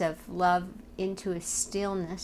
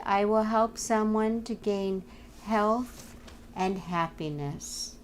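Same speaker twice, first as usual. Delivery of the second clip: devotional reading. Acted. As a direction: read it out as a heartfelt affirmation, pausing between phrases. Reads a devotional passage aloud.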